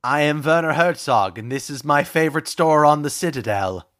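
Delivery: lightly voiced German film director; a hint of German documentary narrator; Werner Herzog. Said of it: "both of these are horrible".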